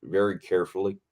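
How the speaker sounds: lightly imitated Southern stunt coordinator; Southern accent. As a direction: give a measured safety briefing with a Southern accent. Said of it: "everyone's got a Southern accent. He's like".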